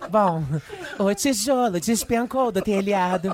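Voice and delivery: slow, dramatic reality show confessional; reality show interview. Pretend. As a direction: tell it like a reality show guest. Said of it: "faz uma, um diálogo".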